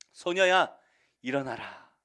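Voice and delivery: full-voiced summons to rise; commanding call. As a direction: raise her with a ringing command. Jesus raising the girl.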